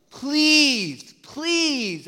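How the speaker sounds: begging please, high and pressing; mild imitated begging of the apostle; pleading. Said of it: "Paul is on his hands and knees".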